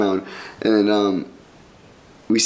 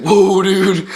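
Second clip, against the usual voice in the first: startled whoa; 9 semitones higher, 5 dB louder than usual. Retold or imitated. Dave facing a gun.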